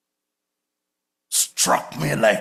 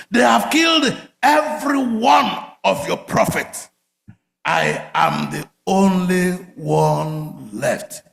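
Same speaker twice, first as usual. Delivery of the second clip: mock complaint to God; 3 semitones higher, slower than usual. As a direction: cry out, then drag the last words. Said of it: "Elijah was busy telling God".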